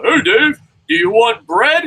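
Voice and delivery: very high, loud cartoon hero voice; high mock superhero hail; Ampa Man. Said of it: "He's like".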